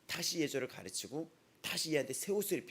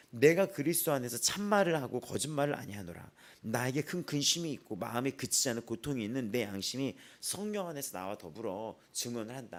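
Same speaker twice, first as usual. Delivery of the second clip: scripture reading. Acted. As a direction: read the verse out to the congregation. Reads scripture aloud. (성경 봉독하듯 또박또박)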